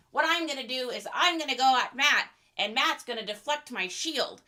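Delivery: lightly voiced nerdy kid presenter; a hint of nerdy video host; nerdy larper. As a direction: present to camera like an earnest cosplay nerd. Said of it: "That was my nerdy impression".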